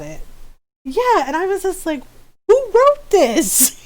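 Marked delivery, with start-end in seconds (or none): 2.5-3.8 high, loud, drawn-out Filipino mom demand; mock-scolding mother, pitched up and stretched. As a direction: imitate an outraged little Filipino mom. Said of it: "channeling my, my little Filipino mom".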